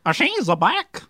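attempted British accent. Shown as a demonstration. Guest reading an article to prove his British accent, badly faked. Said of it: "in your British accent".

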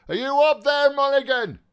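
calling loudly. A narrator's reading. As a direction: call up the stairs to someone. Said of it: "called loudly".

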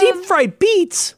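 drawn-out, high disbelieving echo; slow, high-pitched incredulous question. Real, not acted. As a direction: ask it like you can't believe it.

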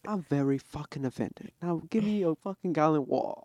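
put-on European accent, playfully offended; indignant European-accent parody; mock European accent. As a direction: act affronted in a European accent. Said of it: "A European accent".

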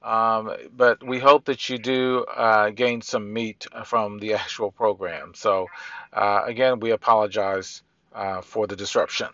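reverb-heavy room sound; echoing like in a big hall. Real, not acted. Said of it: "the reverb that you will hear during this interview".

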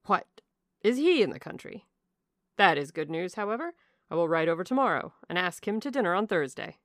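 a touch of bluff enthusiasm; lightly voiced hearty squire. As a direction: answer heartily as a pleased squire. Narrator voices Sir John's reply.

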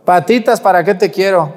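high, loud mock panic; panicked flight. Terrified mourners running from the coffin, hammed-up panic. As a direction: yelp it like a fleeing mourner.

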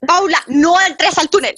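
acted-out anxious plea, stretched slow; retold urgent warning. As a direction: slowly plead a warning, as if retelling it. Retold panicked warning before tunnel.

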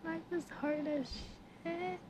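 breathy laughing, high and soft. Real, not acted. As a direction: laugh it out in mock despair. Laughing despair at adult life.

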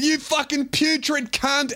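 high, slow mocking insult; a girl yelling at the driver; teen girl insult. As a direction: spit the insult out.

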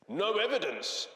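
high, put-on teacher voice; incredulous head teacher. A narrator's reading. Head teacher hearing there is no proof, incredulous. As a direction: echo it in high disbelief.

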